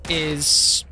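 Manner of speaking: word cut by a sneeze; sneezing. Real, not acted. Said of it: "I'm gonna sneeze again".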